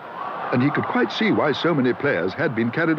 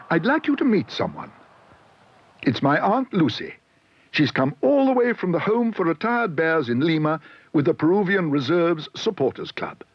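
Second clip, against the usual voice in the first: higher, proud polite bear; polite little bear; 6 semitones higher than usual. A narrator's reading. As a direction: introduce his aunt shyly. Paddington's voice.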